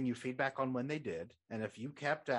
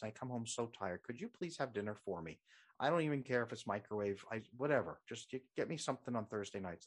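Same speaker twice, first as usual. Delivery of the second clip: calm request. Retold or imitated. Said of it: "very calmly said".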